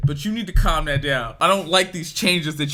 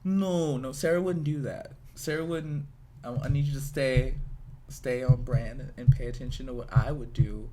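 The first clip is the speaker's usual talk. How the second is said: executive producer; 4 semitones lower than usual. Acted. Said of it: "as an executive producer, being like".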